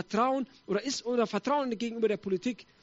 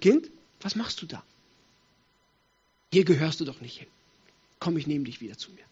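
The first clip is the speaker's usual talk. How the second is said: lower, tender fatherly call; gentle reproach; 5 semitones lower than usual. Acted. The Lord to his straying child, tenderly.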